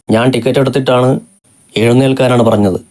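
mild mock yell at the woman; a sudden roar. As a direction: bark the order, lightly acted. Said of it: "Kannan ഒറ്റ അലർച്ചയായിരുന്നു".

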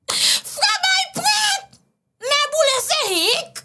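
high slurred mock drunk; drunk with hiccups. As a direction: hiccup through the words. Drunk hiccuping brother act. (ivre avec le hoquet)

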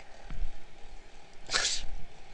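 breathy laugh. Real, not acted. Laughs at own joke.

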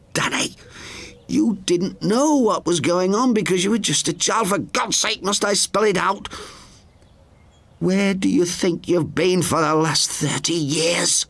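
put-on high elderly woman's voice, alarmed; high, startled sister's voice; Frances, frightened. A narrator's reading. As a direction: gasp it out as the frightened old sister.

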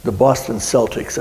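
the team's way, "Celtics" starting like "sell"; mispronounced Celtics. Shown as a demonstration. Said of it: "and mispronounces it".

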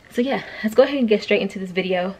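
slightly winded, talking through short breaths. Real, not acted. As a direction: speak as if a little out of breath. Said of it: "I'm out of breath".

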